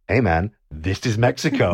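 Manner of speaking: lightly imitated Mexican accent; a hint of Mexican accent, mock laid-back. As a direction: do a casual boat guy with a Mexican accent. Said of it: "like, Mexican accents".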